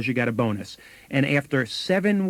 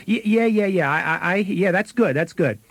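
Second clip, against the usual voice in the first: higher, hurried, stammered yeses from another room; distracted sister; 5 semitones higher than usual. Sister bathing a baby answers the salesman, in a higher distracted stammer. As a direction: toss off quick half-attentive agreement.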